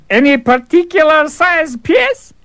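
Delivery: high, slow innocent question; cheeky fool. Acted. Fool innocently asking the Tsar for specifics. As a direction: ask it straight-faced.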